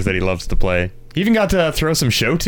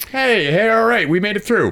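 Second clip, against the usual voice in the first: excited; 11 semitones higher than usual. Real, not acted. Celebrating end of bad film.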